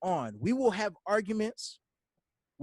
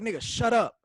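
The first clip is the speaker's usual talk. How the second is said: louder, a touch of a scolding best friend; retold friend scolding; 3 semitones higher, 5 dB louder than usual. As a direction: lightly snap like a blunt best friend. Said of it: "He's like".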